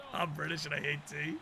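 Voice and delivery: mock Russian accent, heavy and blunt. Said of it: "in Russian voice".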